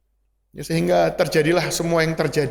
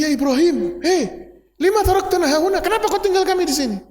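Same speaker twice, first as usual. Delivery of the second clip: desperate calling out; 13 semitones higher than usual. Acted. Hajar chasing Ibrahim again.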